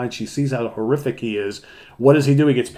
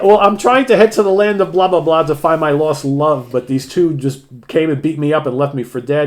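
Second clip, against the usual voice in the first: hammed-up warrior; 5 semitones higher, 6 dB louder than usual. Warrior voiced in retelling.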